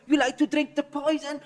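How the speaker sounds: high, slow taunt in a put-on voice; ranting manager. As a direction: mimic an unhinged boss accusing a player. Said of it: "you're so scared, but you're also trying not to laugh".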